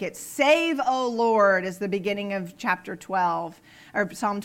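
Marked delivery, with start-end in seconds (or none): 0.2-1.6 raised, louder cry to the Lord; dramatic cry of Save, O Lord; dramatic plea. Acted. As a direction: call out to God dramatically. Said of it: "it's usually a very dramatic".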